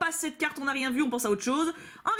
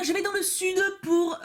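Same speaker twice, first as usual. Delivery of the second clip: lilting southern French accent, pitched higher; 7 semitones higher, slower than usual. Real, not acted. Vlogger announcing a trip south, in a southern French accent. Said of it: "j'ai pris un accent désolé".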